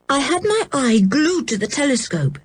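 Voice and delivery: put-on high, worried child; anxious account. A narrator's reading. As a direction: tell it urgently, pitched high. Worried George recounts what she saw.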